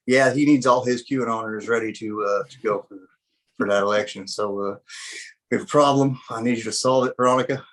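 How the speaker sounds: lightly put-on Southern accent. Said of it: "I really liked your Southern accent there you just, uh, put on".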